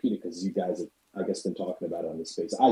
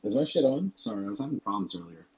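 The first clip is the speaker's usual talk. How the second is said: underwater. Real, not acted. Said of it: "you sound like you're underwater".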